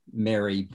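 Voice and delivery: "Mary" with the vowel of "air"; distinct vowel. Shown as a demonstration. Testing listeners' accents, "Mary" with an air vowel. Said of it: "those words are pronounced differently".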